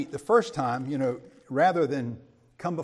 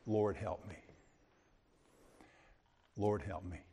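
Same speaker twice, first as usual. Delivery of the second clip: quiet plea; 8 semitones lower, 10 dB quieter than usual. Retold or imitated. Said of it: "she cries out for help".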